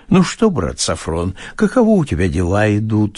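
a touch of a kind landowner; kindly. Acted. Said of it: "спросил он ласковым голосом".

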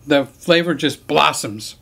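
slow, savoring snobbish food-critic tone; mock foodie. Praising the Haagen-Dazs, slow mock-snobbish savoring. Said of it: "Who the heck talks like that?".

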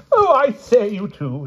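high whimper, then fading; a lightly voiced feeble plea; weakly. A narrator's reading. Pellinore, head in hands, pleading weakly with knights. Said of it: "he said weakly".

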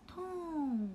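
whispered product name. Real, not acted.

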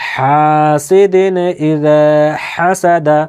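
slow, drawn-out chanted reading; Quran recitation. Shown as a demonstration. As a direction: recite each phrase twice for students. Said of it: "উচ্চারণগুলো আপনাদের সামনে আমি বলছি".

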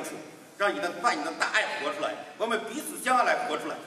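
earnest prayer voice, addressing God. Acted. Pastor leading the congregation in prayer, reverent. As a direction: pray it reverently.

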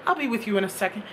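sweet reassurance. Retold or imitated. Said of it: "She said".

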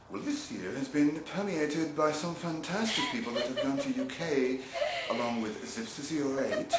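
put-on half-laughing, weak British accent. Host giggling through his bad British accent listing nominees. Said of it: "I'll stop the accent".

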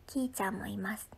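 quiet whispered aside; hushed mention of the sister. Real, not acted. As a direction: whisper it softly. Whispering so family not disturbed.

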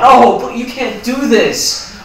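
loud, high, drawn-out plea; desperate protest. Acted. Roommate being evicted protests, desperate. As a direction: cry out against being thrown out. Begging during eviction quarrel.

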